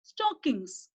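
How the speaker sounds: Stockings said slowly and clearly, stress on STOCK; teacher modelling Stockings; model pronunciation. Shown as a demonstration. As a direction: say Stockings crisply for the class to copy. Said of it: "Shall we pronounce the word?".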